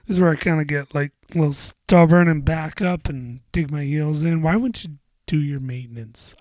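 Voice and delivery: heat up while venting; worked up. Real, not acted. Venting about customer.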